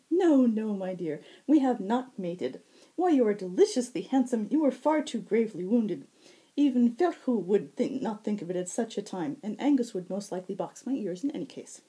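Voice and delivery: high, loud, playful fae tease; teasing high herald. Acted. Shinnah teasing the blushing Zack, high and playful. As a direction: tease him, lilting up high.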